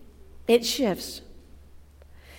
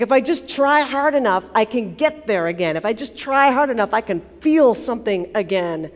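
willing himself; 5 dB louder than usual. Acted. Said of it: "he's trying to will himself there".

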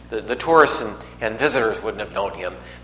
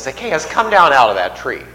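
mildly raised call, pitch peaking then falling; loud call; 3 dB louder than usual. Retold or imitated. Jesus calls up to Zacchaeus in the tree, loud call. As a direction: call someone down from a height, only moderately loud. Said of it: "He says it very loudly".

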